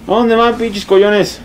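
high-pitched mocking challenge; taunting. Real, not acted. Gamer taunting fleeing enemies as cowards, taunting. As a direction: taunt them as they run.

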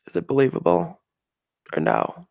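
put-on feminine voice, lightly done. Shown as a demonstration. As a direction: do a mock feminine voice. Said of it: "do a really good feminine voice".

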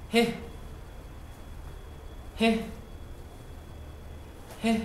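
He breathed out softly, just air; soft He sound. Shown as a demonstration. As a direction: let He out as pure breath, no effort. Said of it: "I will pronounce He letter".

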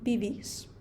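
«бівіс» with the accent on the final «і»; teacher showing where «бівіс» takes its stress. Shown as a demonstration. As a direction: lean on the last «і» in «бівіс». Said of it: "І третій тип на літеру «і»".

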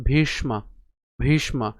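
ভীষ্মা with a retroflex ষ, bhish-ma; careful ভীষ্মা; pronunciation demo. Shown as a demonstration. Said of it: "তো উচ্চারণ কেমন?".

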